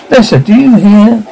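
loud, high call to a sleeper. Acted. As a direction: raise the voice to wake him. Shouting at the sleeper.

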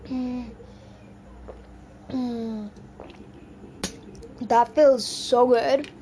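slow relieved sighs after drinking; relieved after water. Real, not acted. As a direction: savor the cool water, slowly. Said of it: "Drinking water after eating spiciness".

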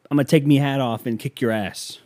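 lightly put-on Irish fighter's accent; mock Irish accent. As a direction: imitate an Irish threat, teasingly. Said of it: "You got that silly little accent".

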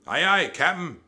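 high, loud crew reply; obedient pirate crew. A narrator's reading. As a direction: shout back obediently. Crew answers the roared order.

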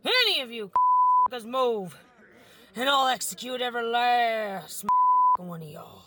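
high-pitched hold-up threat; threatening robber. Acted. Robber warning the bank crowd not to move, menacing.

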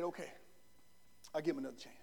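very low, very soft relenting; hushed low voice of a president yielding; grudging president. Retold or imitated. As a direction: give in quietly. Lincoln grants pardon.

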